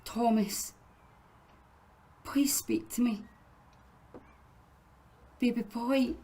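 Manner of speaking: soft, hushed plea; pleading whisper. Acted. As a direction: whisper through the door, begging. Mother pleads at son's door.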